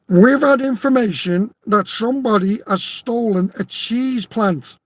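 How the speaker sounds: a light hint of a Cornwall accent, policeman's official tone. Policeman addressing the coach, faint Cornwall accent. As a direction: put on a faint Cornish copper voice. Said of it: "fucking Cornwall accent".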